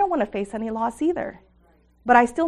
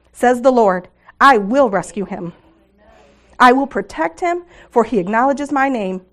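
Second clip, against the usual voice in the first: fervent, swelling psalm reading, loud peaks; scripture reading; 4 dB louder than usual. Acted. Speaker reading Psalm 91 to the women, fervent and swelling. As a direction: proclaim the promises as you read.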